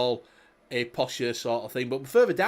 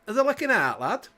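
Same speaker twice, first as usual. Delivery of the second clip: put-on Yorkshire accent; 7 semitones higher than usual. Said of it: "used to knock on door and say".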